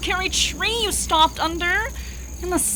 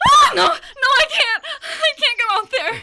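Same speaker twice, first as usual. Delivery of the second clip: high, loud frightened cry of no; panicked refusal; 9 semitones higher, 5 dB louder than usual. Acted. Frightened woman refusing the officer, panicked loud cry. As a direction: beg not to be taken out, terrified.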